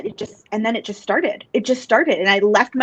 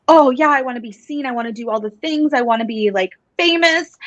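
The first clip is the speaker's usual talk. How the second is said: a touch of dreamy, showy enthusiasm; starry-eyed eagerness; 3 semitones higher than usual. Retold or imitated. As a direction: mimic a fame-hungry wannabe, lightly hammed up. Acting out her eager younger self.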